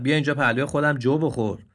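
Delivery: mocking invitation. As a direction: invite him with a jeer. Donkey mocks the deer. (دعوت با ریشخند)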